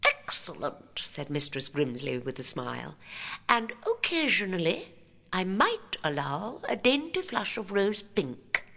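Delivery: lightly voiced prim headmistress; prissy approving teacher; prim schoolmarm.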